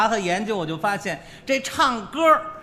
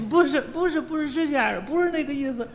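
higher, insistent shop owner voice; emphatic shop owner; 7 semitones higher than usual. Retold or imitated. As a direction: cut in, pressing him for payment. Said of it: "老板". (店老板着急地追讨包子钱)

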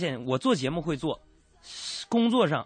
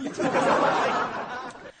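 high airy laugh; a quick giggle at his own joke. Real, not acted. Host laughing at his wolf story, high airy laugh.

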